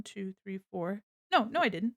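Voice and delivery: usual speaking voice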